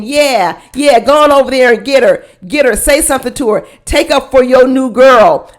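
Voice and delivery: retold cheering-on, quick; happy egging-on. Viewer urging a man to defend his new girl, happily egging on. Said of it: "I was so happy saying".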